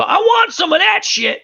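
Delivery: mock eager squeal. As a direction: jump at it like a kid wanting candy. Retelling eager movie character.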